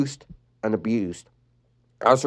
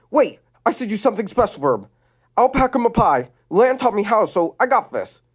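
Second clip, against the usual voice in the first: Lenny voice; 9 semitones higher than usual. Acted. Lenny planning.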